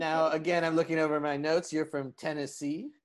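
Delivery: lightly voiced insult comic; a hint of a smug roaster; roast comic Raz. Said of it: "insult roast comic, Raz Clifford".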